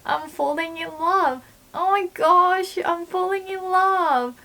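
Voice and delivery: gushing swoon. Shown as a demonstration. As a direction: swoon dramatically as a joke. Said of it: "Horeru means like".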